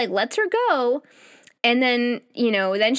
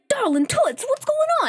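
mock tender man; 14 semitones higher than usual. He voices a fond man.

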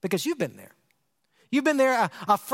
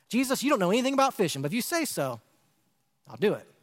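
exasperated, then yielding; faster than usual. Retold or imitated. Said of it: "paraphrasing Simon to Jesus".

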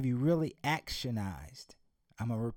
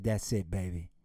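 father's lesson; 4 semitones lower than usual. Acted. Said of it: "He said".

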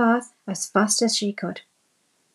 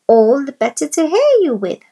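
wolf voice; 6 semitones higher, 8 dB louder than usual. A narrator's reading. Wolf in disguise answers.

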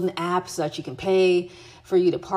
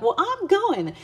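high-pitched, breezy self-declaration; mock determined; 13 semitones higher, slower than usual. Solo traveler telling herself she will go anyway, determined. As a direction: lift it high, imitating your own resolve. Retelling her resolve to go.

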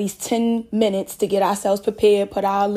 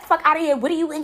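high little squeaky voice; lightly squeaky mock outrage; 6 semitones higher, much faster than usual. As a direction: squeak it out like an indignant girl. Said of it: "In her little squeaky voice".

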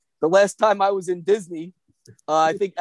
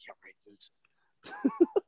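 sarcastic; 10 dB quieter, much slower than usual. Retold or imitated. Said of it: "and I'm like".

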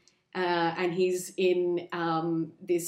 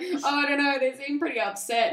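lightly voiced, higher hesitant Mulaney; a hint of a nervous Mulaney, pitched up; John Mulaney impression; 6 semitones higher than usual. Podcaster husband fretting to his wife, a hint of Mulaney. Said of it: "John Mulaney and his wife".

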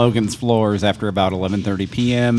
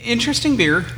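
much higher, falling, pointedly hedged; in air quotes; 12 semitones higher than usual. Real, not acted. Brewer introduces an odd peanut butter beer, in air quotes. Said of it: "Interesting with air quotes".

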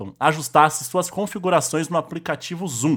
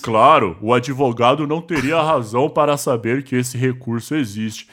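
changed voice; 5 semitones lower than usual. Shown as a demonstration. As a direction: lower put-on voice for the quote. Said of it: "eu vou só mudar a voz".

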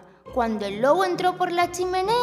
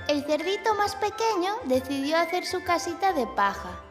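put-on gentle storytelling for kids; story narration. A narrator's reading. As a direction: read it like a bedtime tale.

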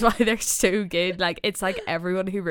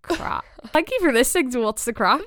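laughing Scottish "Crack", higher; Scottish accent; 4 semitones higher than usual. Shown as a demonstration. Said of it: "In a Scottish accent".

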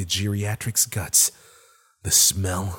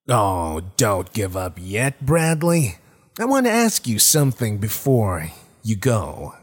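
creature voice; 3 dB louder than usual. Acted. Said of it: "the rabbit said".

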